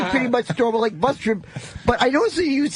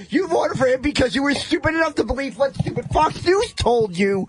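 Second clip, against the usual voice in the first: ranting. Acted. Heckled comic rants at audience.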